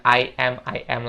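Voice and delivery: I am said as two separate words. Shown as a demonstration. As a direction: keep I and am apart. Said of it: "jangan bilang".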